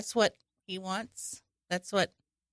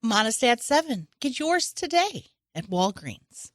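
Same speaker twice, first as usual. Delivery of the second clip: commercial voice. Pretend. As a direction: sell it like a TV ad. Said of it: "that commercial voice".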